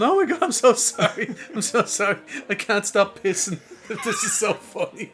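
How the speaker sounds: retold helpless apology through laughter; can't stop laughing. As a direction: imitate someone cracking up while saying sorry. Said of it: "couldn't stop laughing, going".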